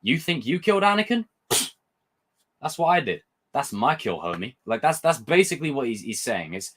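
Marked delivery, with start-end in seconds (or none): 0.0-4.6 mock-cocky, scoffing boast, starting high; Vader's ego trip. Fan voicing Vader claiming the kill from Obi-Wan, mock-arrogant. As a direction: puff up with disbelief, then drop off dismissively. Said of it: "he's taking an ego trip".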